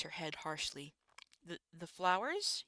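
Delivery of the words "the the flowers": halting, slow, with a repeated start; nervous stammer. Acted. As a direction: stumble over the first word, unsure. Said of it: "you stammer".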